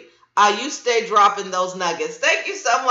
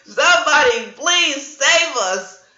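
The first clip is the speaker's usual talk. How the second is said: mock panic; 4 semitones higher, 4 dB louder, slower than usual. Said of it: "I'm like".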